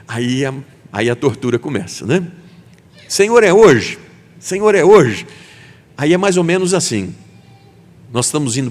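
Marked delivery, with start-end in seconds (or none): 3.1-5.3 impatient plea. Acted. Impatient believer pleading with God.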